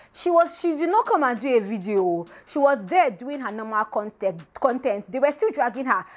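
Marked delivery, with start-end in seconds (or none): none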